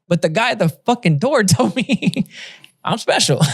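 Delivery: high, laughing mock complaint; mock whine. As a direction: whine it like a kid cheated of a prize through a laugh. Whining about the door guy.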